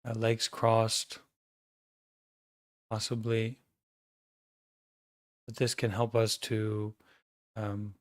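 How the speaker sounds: calm, measured meditation guidance with long pauses; guided meditation. Acted. Teacher guiding an online group to notice their breathing, calm meditation voice. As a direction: guide the group gently into awareness, leaving silences between phrases.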